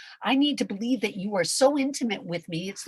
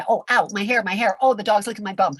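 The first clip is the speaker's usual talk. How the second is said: mock yelp; 6 dB louder, faster than usual. Acting out a playful pet moment.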